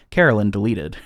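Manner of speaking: flat robot voice. Retold or imitated. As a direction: announce it like a robot voice. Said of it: "a robotic voice say".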